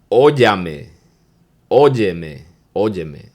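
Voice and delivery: óyeme said slowly, O-YE-ME, Spanish vowels; Spanish word óyeme. Shown as a demonstration. Teaching a class the word, óyeme spelled out. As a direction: pronounce óyeme as a Dominican would. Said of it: "So the first word is".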